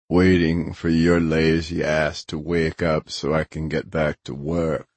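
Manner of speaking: a hint of a grumbling big man; lightly voiced Grinner, gruff. Grinner answers his lazy friend, mildly grumbling. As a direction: lightly play a surly old friend.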